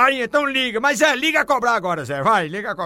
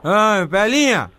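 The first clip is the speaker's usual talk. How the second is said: put-on drunk voice; slower than usual. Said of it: "bebo desmantelado".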